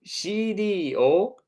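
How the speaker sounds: teacher telling the class to listen to the CD; teacher's classroom command. Shown as a demonstration. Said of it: "classroom commands".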